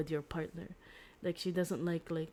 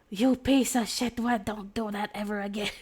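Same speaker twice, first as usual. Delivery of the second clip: mock angry; 4 semitones higher, 6 dB louder than usual. Hero scolding the girl after rescuing her, mock angry. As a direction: tell her off, half laughing. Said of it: "he gets angry".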